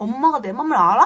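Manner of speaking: acted angry, fed-up, loud irritated outburst. Retelling own past words to mom: imitating own angry outburst. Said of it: "엄마한테 되게 엄청 막 화내고 짜증내고".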